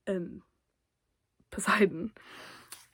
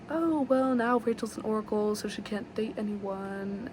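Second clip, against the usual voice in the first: retold fake-casual remark with a lifted opening; mock regret. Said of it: "You don't sound disappointed".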